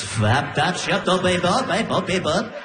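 slurred nonsense rising in pitch; backwards record gibberish. Retold or imitated. Imitating girlfriend's garbled sleep babble. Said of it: "Sounds like you're turning a record backwards".

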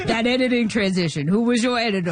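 lightly put-on comedian voice; Adam Sandler impression. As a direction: imitate the comedian quizzing her admiringly. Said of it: "It's the real Adam Sandler voice?".

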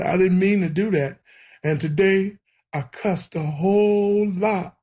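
put-on reliving a child's crying apology to God; retold tearful prayer. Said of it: "I'm crying and I'm telling him".

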